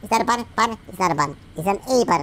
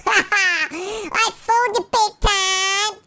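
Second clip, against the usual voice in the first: high, slow, giggling taunt; laughing gloat; 6 semitones higher, much slower than usual. Acted. Puppy gloating at the fish he tricked, laughing high.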